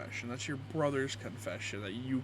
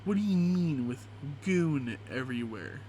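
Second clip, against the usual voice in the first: incredulous; 4 dB louder than usual. Real, not acted. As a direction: ask it in stunned disbelief. Reacting to a gross confession.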